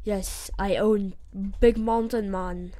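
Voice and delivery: lightly put-on Jamaican accent. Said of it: "I just turned Jamaican there".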